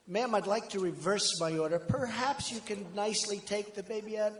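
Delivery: soft, quiet, overly polite request to a mother; mock nice request. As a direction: gently ask her to take the baby out, quietly. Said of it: "I, I did it so nicely".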